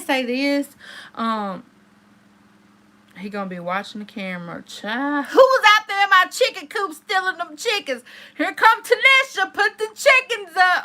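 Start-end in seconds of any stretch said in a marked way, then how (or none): 4.6-10.8 mock accusing call. Teasing accusation about stolen chickens.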